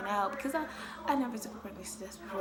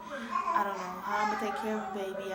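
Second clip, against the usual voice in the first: tearful. Retold or imitated. Panicking teen about pregnancy.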